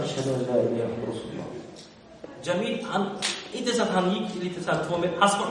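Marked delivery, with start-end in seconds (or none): 0.0-1.4 hushed, much softer and lower confession; secret whisper. Retold or imitated. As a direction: lean in and breathe it like a secret. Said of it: "Så han viskade".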